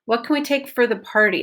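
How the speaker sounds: for said as a quick fer; for reduced to fer, quick and light. Shown as a demonstration. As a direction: blur for into fer. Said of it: "For is pretty reduced".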